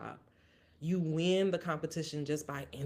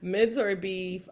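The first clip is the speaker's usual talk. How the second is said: Mentor beef announced slowly and louder, steady; composed restart; 4 semitones higher, 6 dB louder, slower than usual. Real, not acted. Podcaster regains composure for next segment, slow announcement. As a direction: pull yourself together and announce it. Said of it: "Move on".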